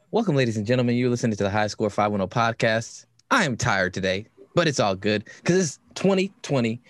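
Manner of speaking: podcast intro. Acted. Podcast host opening the show.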